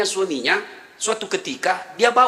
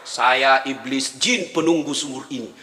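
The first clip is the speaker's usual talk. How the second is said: well jinn; 7 semitones lower than usual. Acted.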